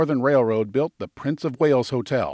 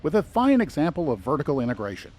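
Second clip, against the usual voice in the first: sarcastic. Acted. Guide recommending the hatchet and matches store to visitors, mildly sarcastic. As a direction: lay on a touch of dry sarcasm. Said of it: "Did I say that with enough sarcasm?".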